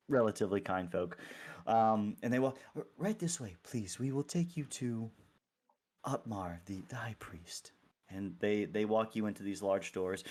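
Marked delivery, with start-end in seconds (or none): 2.8-7.7 softly spoken cleric escort; polite clergy guide. Acted. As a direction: gently usher them along, trailing to a hush. Clergy member leads the group.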